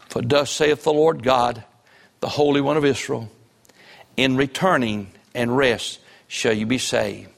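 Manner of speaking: deliberate pulpit reading; scripture reading. Real, not acted. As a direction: read the verse out solemnly, phrase by phrase. Scripture read aloud.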